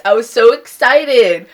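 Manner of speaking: loud, high, drawn-out protest; mock-wounded excitement. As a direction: stretch it out in playful protest. Protests that excitement was spoiled.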